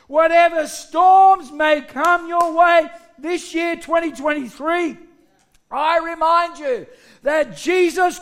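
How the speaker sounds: emphatic, building sermon delivery; preaching. Real, not acted. Preacher reminds his church of Christ's power, preaching. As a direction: proclaim it to the congregation.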